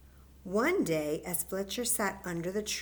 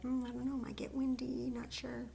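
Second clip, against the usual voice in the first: put-on doubtful child; 5 semitones higher, 5 dB quieter, faster than usual. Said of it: "some of you are like".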